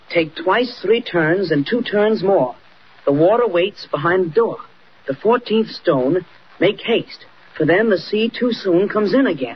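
slow, deliberate reading of a riddle; slowly reading old words off the wallpaper. Acted. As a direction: read each line of the rhyme slowly, puzzling it out. Boy reads out old riddle.

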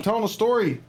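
high-pitched pet-talk voice; talking to a dog. Real, not acted. Streamer telling his dog he is mid-story, high pet-talk voice.

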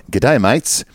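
put-on light, half-committed Australian accent; hint of hammy Australian. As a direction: read it in a tentative Aussie accent. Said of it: "I'm doing this in Australian accent".

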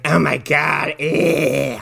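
breathless fangirl gush over him. Retold or imitated. Woman swooning over an unlikable guy, gushing. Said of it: "she's like".

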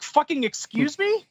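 mock affront, stretched into a question; incredulous challenge. Customer told they can't order here, incredulous. Acted disbelief at clerk's refusal.

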